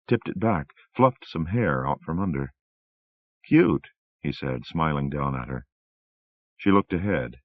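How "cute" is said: playful devil. A narrator's reading. Satan teasing her playfully.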